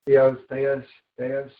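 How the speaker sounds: "Theos" first as THEE-ohs, then THAY-us; trying out pronunciations. Shown as a demonstration. Preacher comparing the ways people say it, "Theos" shifting to THAY-us. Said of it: "most people pronounce Theos as".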